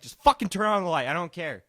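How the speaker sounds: exasperated outburst. Retold or imitated. Worn down by brother's pestering about the light, exasperated. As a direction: give in loudly, as if worn down by nagging. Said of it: "after a while of pestering".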